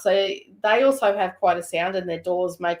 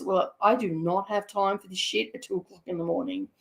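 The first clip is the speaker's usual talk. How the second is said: understated, softer weary deadpan; 2 semitones lower, 6 dB quieter than usual. Retold or imitated. Ambulance driver at two in the morning, retold deadpan. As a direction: imitate someone with no time for this, toneless. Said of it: "you could hear by the tone in his voice".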